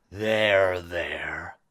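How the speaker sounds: low, slow, hushed soothing; calm the beast, sinking into a whisper; low villain's soothing murmur. Acted. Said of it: "like, whispering to him".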